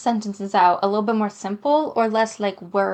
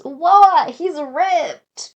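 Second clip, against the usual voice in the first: shocked; 6 semitones higher, 8 dB louder, much slower than usual. Acted. Mateo's shocked line read aloud.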